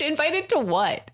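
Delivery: high, laughing question; laughing disbelief. Real, not acted.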